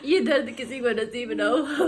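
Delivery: crying while speaking. Real, not acted. Widow remembering her mother removing her bridal adornments, crying. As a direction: let the tears break into the line.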